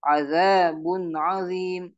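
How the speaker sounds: recited with a clear N in "azabun", no hum; measured Quran recitation, "azabun" without nasal holding; correct clear nun. Shown as a demonstration. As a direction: say "azabun azim" with "azabun" ending crisply before the ain. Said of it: "Yang benar adalah".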